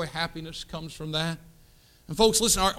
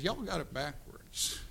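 soft, slow "Y'all got it backwards."; a quiet, measured rebuke from God; God's voice, softly; 10 dB quieter, slower than usual. Retold or imitated. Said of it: "and God says".

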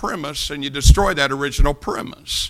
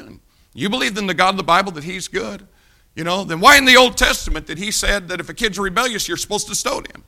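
higher-pitched critic pressing a point; mock challenge; 5 semitones higher, 5 dB louder than usual. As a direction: play the sceptic cornering a believer. Acts out a liberal critic's challenge.

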